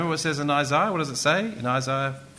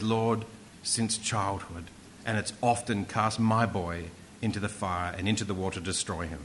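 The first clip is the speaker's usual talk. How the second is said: pained father; 5 semitones lower, 4 dB quieter than usual. Acted. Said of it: "give voice to their combined pain".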